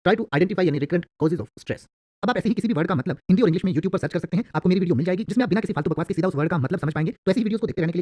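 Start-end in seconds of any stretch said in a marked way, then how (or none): 0.1-1.9 slow, careful English example; measured reading for learners; slow dictation. Shown as a demonstration. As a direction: read it slowly, word by word. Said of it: "तो आप कहेंगे".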